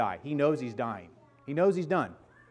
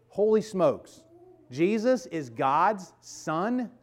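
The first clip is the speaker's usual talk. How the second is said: astonished; 4 semitones higher, much slower than usual. Real, not acted. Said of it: "preacher's astonishment".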